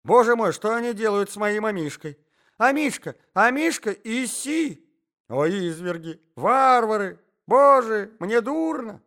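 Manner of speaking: high, loud, melodramatic wailing lady; distraught cries. A narrator's reading. Lady finds her lapdog harmed, distraught cries. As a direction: cry out as if about to faint. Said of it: "закричала дама".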